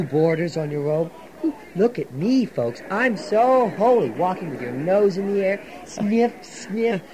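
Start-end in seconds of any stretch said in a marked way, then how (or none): 1.8-5.6 mocking Zadok. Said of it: "You've been watching the old Pharisee Zadok". 5.9-7.0 sniffing the air. Pretend. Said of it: "You've been watching the old Pharisee Zadok".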